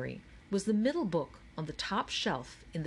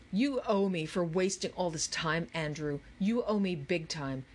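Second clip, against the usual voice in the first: mildly scolding bossy partner; annoyed Charles. Acted. Charles berates Andrew for wasting time, mildly scolding. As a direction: lean on him with mild annoyance.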